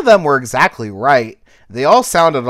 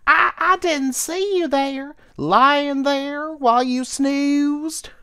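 confused little cricket; 12 semitones higher, slower than usual. Acted. Cricket answering the caterpillar she tripped over, confused. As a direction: stammer it out, confused. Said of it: "quite confused".

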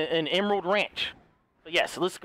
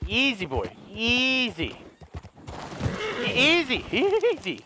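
soothing horse; 3 semitones higher, slower than usual. Real, not acted. Calming a spooked horse.

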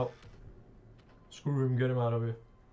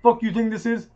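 furious top-of-lungs shout, much higher; real yelling at a rival player; 10 semitones higher, 13 dB louder than usual. Real, not acted. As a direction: bellow it to drown him out. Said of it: "I'm yelling".

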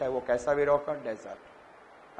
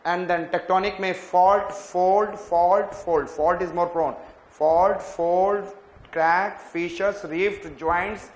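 fast recap; 3 semitones higher, 4 dB louder, faster than usual. Shown as a demonstration. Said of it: "fast में बोलूँगा".

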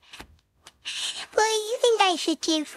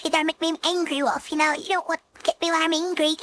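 lower, faster mock-tough growl; 4 semitones lower than usual. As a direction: put on a fake angry tone. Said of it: "Yes, I can be angry in this mode".

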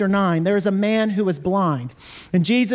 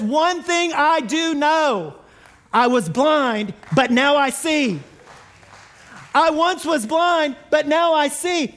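earnest testimony; 4 semitones higher, slower than usual. Retold or imitated. Healed man testifies.

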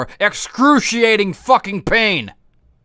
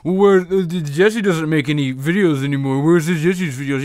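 whiny fan; 2 semitones lower than usual. Retold or imitated. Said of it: "deal with people going".

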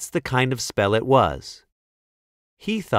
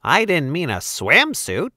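tiny tinkling fairy voice; 5 semitones higher than usual. Acted. Fairy reacting to her mistake.

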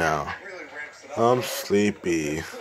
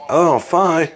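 a higher, louder "Eleven oh five?" in alarm; shocked echo; 6 semitones higher, 3 dB louder, faster than usual. Acted. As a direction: repeat the time like you just realised you're late.

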